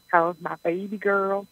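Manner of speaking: slow, lightly drawn-out Southern dad voice; a hint of her Southern dad greeting his daughter; Southern accent. Daughter imitating her dad's Southern greeting, lightly done. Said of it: "He talks like this".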